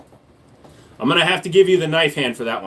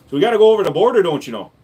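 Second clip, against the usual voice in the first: put-on Minnesota accent; 4 dB louder, much faster than usual. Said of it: "We're almost Canadian".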